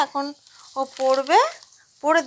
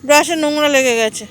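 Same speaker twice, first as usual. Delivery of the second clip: loud call; 6 dB louder than usual. Real, not acted. Mother points out dirty brush.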